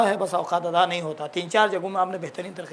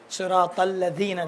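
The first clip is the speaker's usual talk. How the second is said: slow, careful recitation; slow Quranic demo; slower than usual. Shown as a demonstration. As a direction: draw each sound out slowly. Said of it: "direct لا نہیں".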